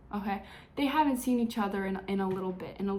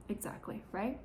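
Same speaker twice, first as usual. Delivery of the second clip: whispered Exactly, much softer; whispered agreement; 9 dB quieter than usual. Real, not acted. Vlogger whispers Exactly to her viewers, conspiratorial.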